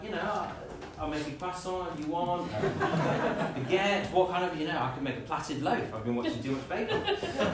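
laughing through a boastful list of breads; mock boast with laughs; laughing show-off. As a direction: giggle while bragging about your baking. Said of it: "Maybe you'd be like".

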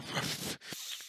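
soft breathy bear snuffle; low-volume sleeping-bear huffs; sleeping bear noises. Acted. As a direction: imitate a big bear snoring quietly. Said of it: "just making big bear noises".

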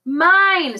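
high, loud, long drawn-out claim; Hood's cutting cry from underground; cutting villain voice. A narrator's reading. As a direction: stretch the word out possessively, piercing. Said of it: "no other voice on earth that could cut so deep".

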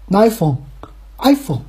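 slow iPhone, stressed first syllable falling away; corrected iPhone. Shown as a demonstration. Promising to fix accent, careful slow iPhone. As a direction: practise iPhone slowly with the I on top. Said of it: "尽量就给它改过来。 比如说".

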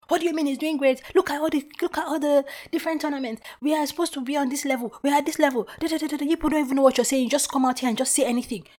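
high, loud indignant football fan; heated ranting. Retold or imitated. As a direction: rant in outraged disbelief, barely stopping. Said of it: "how somebody came from nowhere".

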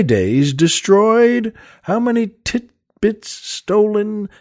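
slow, grand poetry recital; hammy stage actor. Acted. Reads a Keats poem aloud.

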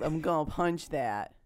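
slow, mock-naive child Robin; small willowy child. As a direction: say it like a tiny brave boy. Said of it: "I, a small willowy child".

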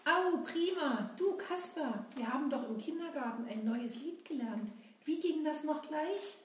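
Seppel puppet voice. Acted.

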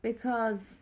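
one word at a time, with pauses; clipped single words, each one alone; staccato. Shown as a demonstration. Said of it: "build the story one word at the time".

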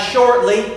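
"shortly" lifted with a rising tune; "shortly" stressed and rising. Shown as a demonstration. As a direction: lift "shortly" up and hold it. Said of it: "We emphasize".

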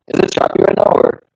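choppy laggy call audio; breaking up over a bad connection; video call lag. Real, not acted. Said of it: "you just sound laggy".

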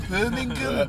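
playful Birmingham impression; Birmingham accent. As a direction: sing out the city in mock Brummie. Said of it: "I know Birmingham".

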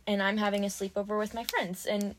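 nicely voiced quote, lightly imitating a courteous host; polite Barbie. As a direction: politely mimic a gentle send-off. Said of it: "she says it so politely".

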